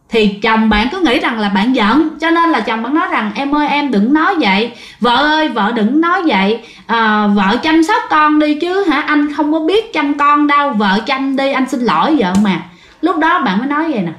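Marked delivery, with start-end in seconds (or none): 3.4-12.6 raised, pleading apology to his wife; pleading husband. Retold or imitated. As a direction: beg her gently to stop talking like that. Husband begging his upset wife.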